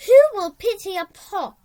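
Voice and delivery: crackling, pleading call from a hot pot. A narrator's reading. The red-hot cauldron pleading with Flora, a crackling voice. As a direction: beg for help like a burning pot. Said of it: "a voice like crackling twigs".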